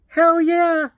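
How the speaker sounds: high, punchy mock dad exclaim; gleeful yes. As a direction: toss it off high like an eager dad. Dad's gleeful reply in story.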